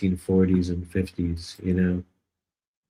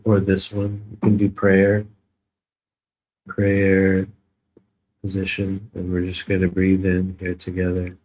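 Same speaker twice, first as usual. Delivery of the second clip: mock guided meditation; 2 semitones lower than usual. Streamer leading chat in a joking healing session, mock meditation voice. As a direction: playfully lead the chat into calm.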